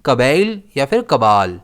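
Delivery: कबैल and कबाल both said with stress on the B; careful teacher pronunciation of two variants. Shown as a demonstration. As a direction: offer कबैल then कबाल as the choice. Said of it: "कैसे pronounce करते हैं".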